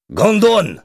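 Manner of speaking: high, loud Russian curse; furious curse. A narrator's reading. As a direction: spit out the curse at a biker. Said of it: "jura le Russe".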